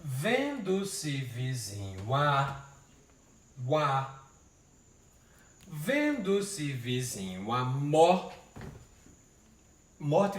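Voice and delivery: slow, with the syllables joined across the words; slow scansion. Shown as a demonstration. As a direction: count out the syllables, slowly. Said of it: "vamos ajeitar isso". (escandindo devagar, juntando as sílabas)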